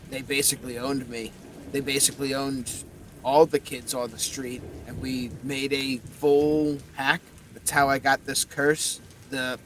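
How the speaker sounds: werewolf skull. Acted. Skull tells his backstory.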